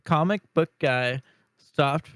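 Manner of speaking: numb tongue from ice; slightly thick numb speech. Real, not acted. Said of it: "my tongue is, like, numb".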